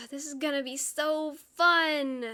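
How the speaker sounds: slow sarcastic delivery. Acted. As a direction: drag it out with snark. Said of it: "I am being really snarky today".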